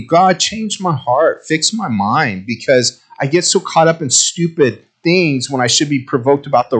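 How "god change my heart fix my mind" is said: quiet prayer. Retold or imitated. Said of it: "I'm praying for me".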